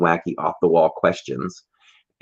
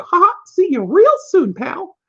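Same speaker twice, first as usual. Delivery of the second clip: much higher, louder sing-song farewell; a goofy, cartoonish see-you-later; hammed-up goodbye; 5 dB louder than usual. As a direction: tease the family in a goofy voice. Reading the sign in the car.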